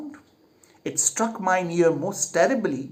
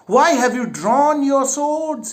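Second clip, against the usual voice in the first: higher, louder, slow alarmed demand; alarmed question; 8 semitones higher, 5 dB louder, slower than usual. Acted. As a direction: demand an answer in shock. King confronts drawn swords.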